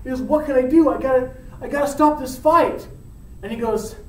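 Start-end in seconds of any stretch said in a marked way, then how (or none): 0.0-2.9 higher, urgent mock fretting; acted alarm. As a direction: voice a worried Romeo thinking fast. Romeo voiced, panicking over fight.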